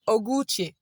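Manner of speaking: "Ogu Uche" with vowels merged; joined vowels. Shown as a demonstration. Teacher tells a joke about joined Igbo vowels. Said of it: "You say".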